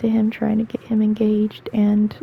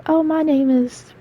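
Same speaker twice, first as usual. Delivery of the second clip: imitating little kids; 5 semitones higher than usual. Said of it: "They're like".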